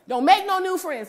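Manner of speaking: high, loud, slow repeat of the warning; husband repeating his rule; stern husband. Retold or imitated. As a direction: drill the rule in, slowly.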